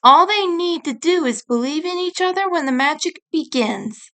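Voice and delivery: lightly voiced fairy guide. Rin reassures.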